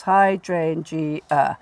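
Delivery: very slow "hydrangea", DRAIN drawn out; hammed-up hy-DRAIN-gea, stretched; overdone stress on DRAIN. Shown as a demonstration. Teacher exaggerating the stress for a student: hy-DRAIN-gea. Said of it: "I was going over the top".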